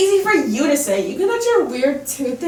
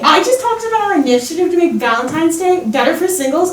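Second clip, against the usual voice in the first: louder, stung and indignant; 6 dB louder than usual. Acted. Cupid snaps at Tooth Fairy in the debate, indignant and louder. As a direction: fire it back at the accusation, offended.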